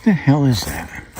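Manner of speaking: startled, puzzled question; surprised. Real, not acted. Spots something odd on tree.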